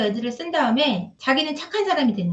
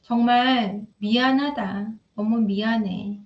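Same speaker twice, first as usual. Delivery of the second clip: slow, sincere apology; slower than usual. Shown as a demonstration. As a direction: say sorry slowly and mean it. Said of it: "라고 얘기하고".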